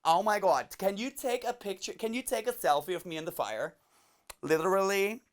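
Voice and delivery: lightly voiced excitable selfie girl; teenage girl imitation. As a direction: gush like a mock social-media teen. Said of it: "these teenage girls".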